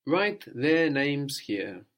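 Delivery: Write their names here said slowly, every word apart; slow and clear. Shown as a demonstration. Teacher to student, slowly setting the prompt.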